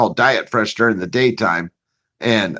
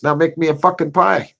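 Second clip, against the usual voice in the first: higher boss voice, rising on pie; mock boss command; 6 semitones higher than usual. Boss ordering the new guy, mock command. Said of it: "And he says".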